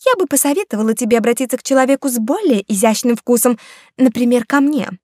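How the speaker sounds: sarcastic. Acted. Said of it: "язвительно сказала".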